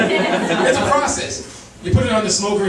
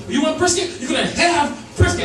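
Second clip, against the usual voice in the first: mock angry; 5 semitones higher than usual. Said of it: "I'm saying".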